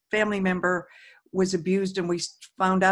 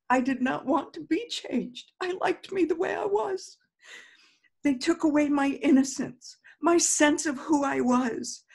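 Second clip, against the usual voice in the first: higher, pleading voice of hurt; hurt lament; 5 semitones higher than usual. Shown as a demonstration. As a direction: sound wounded as you tap. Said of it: "whatever it is that you're feeling".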